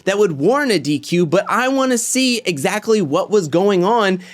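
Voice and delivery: mildly worked-up, insistent rant. Real, not acted. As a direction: press the point, getting a bit heated. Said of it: "I know I'm getting worked up".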